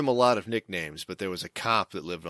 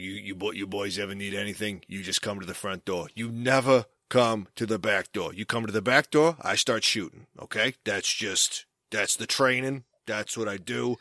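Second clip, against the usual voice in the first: put-on Boston accent. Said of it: "he had the strongest Boston accent".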